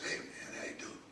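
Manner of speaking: whispered imitation of a friend's greeting; lightly voiced hushed greeting; Joe Tex's way of talking. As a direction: hush it, the way he talks. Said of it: "and he talked like this".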